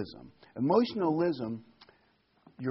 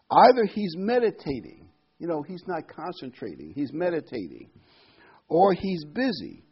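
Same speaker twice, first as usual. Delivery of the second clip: mocking taunt; 4 semitones higher, 6 dB louder than usual. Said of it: "Elijah mocked them and said".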